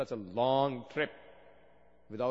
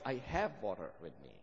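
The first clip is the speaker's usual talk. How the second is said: faint, fading voice of a dying man; barely there, drained and weak; 3 semitones lower, 6 dB quieter, faster than usual. Retold or imitated. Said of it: "replied in a weak voice".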